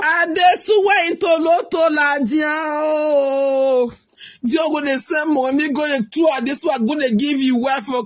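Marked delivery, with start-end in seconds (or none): 0.0-3.9 mocking shout. Real, not acted. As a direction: throw the name back at him, mocking. Wife mocks husband's claim loudly.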